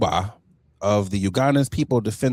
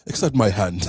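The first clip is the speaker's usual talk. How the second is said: put-on Ugandan accent, lower; mock Ugandan accent; 4 semitones lower than usual. Co-host mimicking the general proposing, mock Ugandan accent. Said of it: "I don't know why I'm using that accent".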